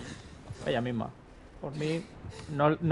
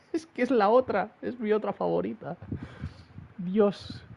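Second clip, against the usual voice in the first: laughing delight; 5 semitones higher than usual. Real, not acted. Gushing over favorite summon returning.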